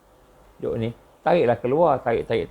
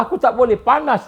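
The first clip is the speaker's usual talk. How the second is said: jinn voice; 11 semitones higher, 5 dB louder than usual. Retold or imitated. Jinn speaking through the girl.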